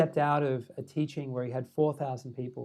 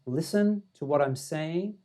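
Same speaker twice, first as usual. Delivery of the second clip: slow, pointed urging; insistent; slower than usual. Retold or imitated. Dalai Lama pulling the visitor's arm, slow insistence. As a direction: imitate someone pressing a hidden meaning, slowly. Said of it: "He was pulling my arm, like, going".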